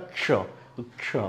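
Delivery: क्ष as क run straight into श; soft isolated क्ष, no leading vowel; correct क्ष sound. Shown as a demonstration. Teacher models the bare sound, correct pronunciation. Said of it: "क plus स।".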